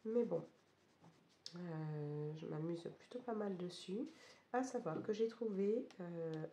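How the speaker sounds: hoarse, losing voice from a cold; croaky sick voice, mostly gone. Real, not acted. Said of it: "vous pouvez l'entendre avec une voix complètement cassée". (voix cassée et enrouée)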